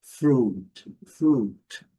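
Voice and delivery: "Fruit" com o U um pouco mais longo; long U. Shown as a demonstration. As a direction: alongue o U de "Fruit". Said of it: "lembrando a letra U um pouco mais longa". (U alongado em "fruit")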